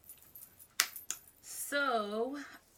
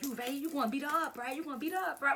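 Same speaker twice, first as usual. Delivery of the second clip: imitated hype crowd; 6 semitones higher, much faster than usual. Classmates hyping her up.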